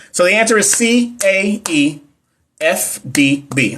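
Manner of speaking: put-on letters read out slowly, one by one, as if to a little kid; like teaching a child. Shown as a demonstration. Reading the answer key to viewers as if teaching her son, slowly. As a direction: sound out each letter for a small child. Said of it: "I don't know why I said it like that".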